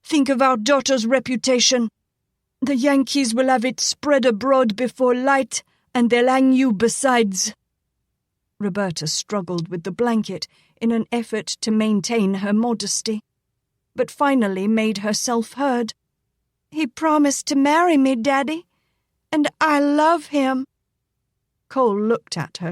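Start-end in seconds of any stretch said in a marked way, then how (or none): 0.0-7.5 high urgent wife's plea; higher worried pleading. Acted. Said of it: "Layla pleaded". 16.7-20.6 pleading daughter. Acted. Daughter confessing to father.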